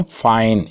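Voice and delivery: "फाइन" drawn out under stress; stressed syllable. Shown as a demonstration. Teacher demonstrating a stressed syllable, "फाइन" stressed and held. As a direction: put the stress on "फाइन" and hold it. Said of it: "इस पे stress दिया जा रहा है".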